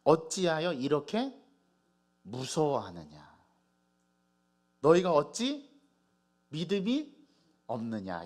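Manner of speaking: slow, weighty reproach with pauses; solemn rebuke. Acted. Jesus chiding the frightened disciples, slow solemn rebuke. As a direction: draw each phrase out as a stern reproach. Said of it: "예수님께서 꾸지람하십니다".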